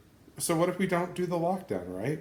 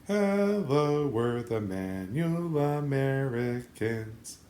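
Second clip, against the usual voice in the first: show intro voice; much slower than usual. Shown as a demonstration.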